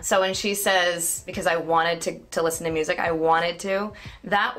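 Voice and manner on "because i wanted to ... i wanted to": "wanted" as "wannid", no T; hard N. Retold or imitated. Coach quotes the film character, hard-N "wanted". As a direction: swallow the T in "wanted" after a hard N. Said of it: "I call it a hard N".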